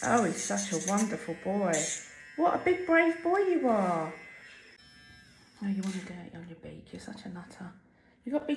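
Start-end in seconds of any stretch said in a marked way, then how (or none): 2.4-4.1 high praise voice. Real, not acted. Praising pet bird. 5.6-7.7 soft fast whisper. Real, not acted. Whispers to bird.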